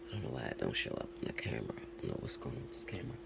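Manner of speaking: low, fast, near-whispered grumbling to herself; muttered aside. Real, not acted. Reader grumbling to herself about the broken camera, fast low mutter. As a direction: mumble it under your breath, annoyed at the gear.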